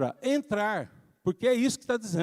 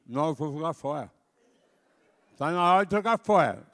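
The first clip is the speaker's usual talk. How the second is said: put-on sulky child; 3 dB louder than usual. Child gives in.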